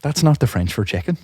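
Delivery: straight-faced, softly stated correction; deadpan. Retold or imitated. Teller winding up a coworker about French, deadpan. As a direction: correct them with a completely straight face. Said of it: "with a completely straight face".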